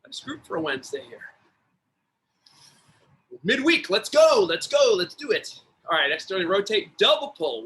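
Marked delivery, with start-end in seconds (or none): 3.4-5.6 pumped up. Real, not acted. Coach pumping up the class.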